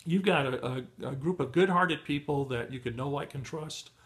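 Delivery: losing his voice, hoarse and strained; hoarse, voice giving out. Real, not acted. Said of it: "I'm losing my voice".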